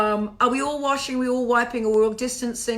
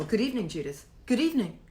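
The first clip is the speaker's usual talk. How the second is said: restrained formal greeting; mock-formal exchange of good evenings; faster than usual. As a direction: greet them with stiff formality. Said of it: "Very formal".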